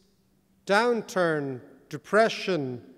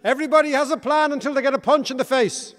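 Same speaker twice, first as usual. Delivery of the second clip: quoting a boxer, louder and higher; playful boxer quote, louder; mock Mike Tyson; 6 semitones higher, 7 dB louder than usual. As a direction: punch out the quote like a fighter. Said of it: "Mike Tyson when he said".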